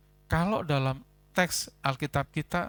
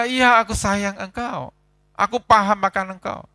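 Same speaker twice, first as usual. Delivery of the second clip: modest reply; 7 semitones higher, 10 dB louder than usual. Acted. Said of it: "Dia hanya berkata".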